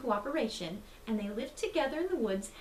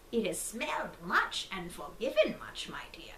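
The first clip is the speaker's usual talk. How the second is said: breathy whisper of the wolf in grandma's bed; 3 semitones lower than usual. Acted. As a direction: whisper it like a hidden predator. Disguised wolf answers the girl.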